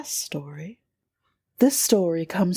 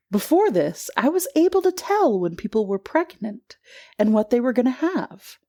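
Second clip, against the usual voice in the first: story reading. A narrator's reading.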